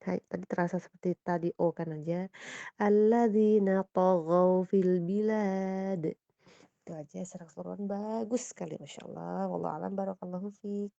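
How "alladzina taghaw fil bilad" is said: "taghaw" with thick to, slow and loud; heavy to. Shown as a demonstration. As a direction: recite slowly, thicken the to. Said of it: "to-nya kurang tebal". ("taghaw" to tebal, pelan)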